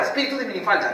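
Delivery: normal talking voice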